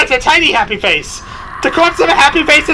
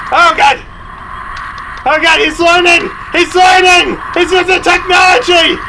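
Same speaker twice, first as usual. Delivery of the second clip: hammed-up panic; 4 semitones higher than usual. Gamer screaming at a learning monster, mock alarm. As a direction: yell as if the monster got smarter.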